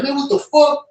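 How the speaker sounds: high, incredulous question; mock disbelief. Echoing his friend's reaction, mock shocked. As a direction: sound baffled, pitch leaping up.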